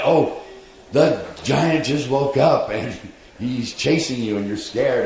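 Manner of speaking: high, slow dramatic narration; storyteller excitement. Retold or imitated. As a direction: build the danger of the chase. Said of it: "and now the gi".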